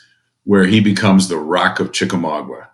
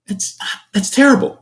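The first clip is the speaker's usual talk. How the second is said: mock sympathy.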